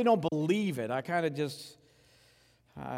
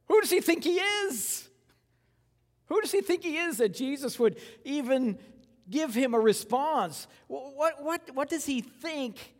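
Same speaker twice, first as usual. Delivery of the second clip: incredulous; 10 semitones higher, 3 dB louder than usual. Acted. Incredulous rant about the thief.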